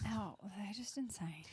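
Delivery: whispering. Real, not acted. Whispered lines.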